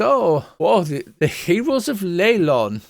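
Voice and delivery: high, hammed-up seer voice; Madame Vastra. Seer hails the arriving heroes, high and theatrical. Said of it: "her accent keeps j-, chopping and changing".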